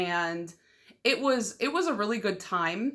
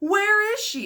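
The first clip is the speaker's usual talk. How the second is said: put-on very high, shrill, loud scream; 12 semitones higher, 5 dB louder than usual. Recounting being unable to whisper while others whispered, retelling own screaming. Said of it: "I'm just like screaming because I don't know how to whisper".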